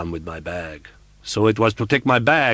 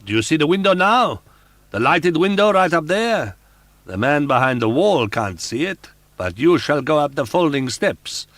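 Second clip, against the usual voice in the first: higher and louder roaring; angry roar; 7 semitones higher, 8 dB louder than usual. Acted. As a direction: roar at her in fury. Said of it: "the angry voice roared".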